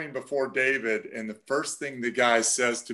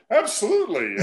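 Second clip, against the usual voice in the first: higher, louder mock enthusiasm; excited retold yes; 8 semitones higher, 5 dB louder than usual. Imitating colleague accepting more chowder from the attendant, excited. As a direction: burst out with a delighted imitation.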